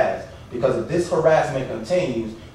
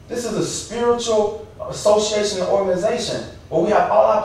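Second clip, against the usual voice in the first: impassioned protest, pitched higher; real, worked-up appeal in a raised pitch; emotional; 4 semitones higher than usual. Real, not acted. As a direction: plead your case with rising emotion. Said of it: "I'm sorry if I'm emotional tonight".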